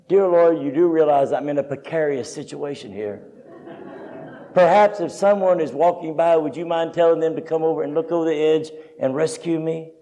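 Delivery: politely understated plea for rescue; mock unfervent prayer. Quiet lady dangling from a bluff asks God for help, mildly. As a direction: imitate a timid lady praying far too mildly. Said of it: "she could get a little more fervency".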